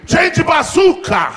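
high, very slow, loud shout; over-the-top cartoon battle cry. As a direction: yell it like a cartoon attack.

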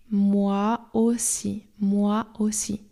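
slow, careful teacher model; slow model phrase. Shown as a demonstration. Teacher models "moi aussi" slowly for learners, careful. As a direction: spell it out slowly for the students. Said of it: "jak powiedzieć „ja też".

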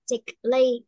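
"thickly" with a short i and a light ly. Shown as a demonstration. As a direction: sound the ending like the word "thickly". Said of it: "mình sẽ đọc là thickly ha".

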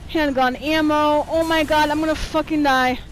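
panicked. Real, not acted. Player sure the character will die, panicked. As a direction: call out as if doomed.

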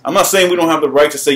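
"I'm not saying" rattled off fast, "not" still marked; quick repeat. Real, not acted. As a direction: rush through the repeat.

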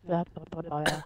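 mocking lisp. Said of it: "You taking the mick out of my lisp?".

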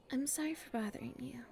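whisper. Acted.

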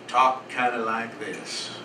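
slow, lightly imitated Southern drawl; a hint of cowboy Southern; Southern accent. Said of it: "He had a southern accent".

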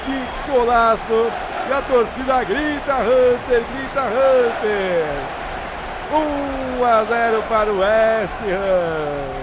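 drawn-out shouted celebration; explosive goal commentary. Real, not acted. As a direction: keep yelling the goal like a broadcaster. (narração de gol empolgada e lenta)

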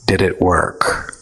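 low, firm yet gentle question; strong but soft. A narrator's reading. Tony quietly challenges ego, firm yet soft. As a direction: press gently but with strength. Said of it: "his voice stronger but his tone soft".

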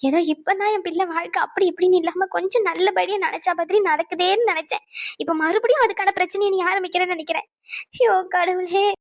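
wailing to God in distress; tearful lament. Acted. Mother crying to God over her child's life, tearful lament. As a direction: lament through tears, drawing out the cries. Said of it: "இந்த மாதிரி ரொம்ப அழுகாதீங்க".

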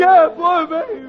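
high mock-whiny echo; echoing baby talk. Boy echoing his mother, high whiny baby voice. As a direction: whine it back like a baby. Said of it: "echoing mother".

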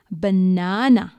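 Banana slowly, each syllable clear; syllable demonstration. Shown as a demonstration. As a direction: draw out Banana for counting syllables. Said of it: "how many syllables in banana".

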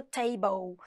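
TABLE ending in a rounded "bo-ol" sound; final O sound. Shown as a demonstration. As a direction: say table as "tei-bou". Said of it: "que ele tem som de O".

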